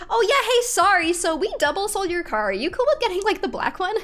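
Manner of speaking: high-pitched, breezy mock salesman; mock dealer apology. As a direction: imitate a casually apologetic car salesman.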